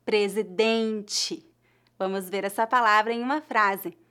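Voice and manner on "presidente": "presidente" said very slowly and clearly, "dente" ending as "dentchi"; teacher drilling "presidente" three times, carefully; slow model word. Shown as a demonstration. Teacher to students learning Portuguese, slowly sounding out "presidente". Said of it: "são pronunciadas como ti".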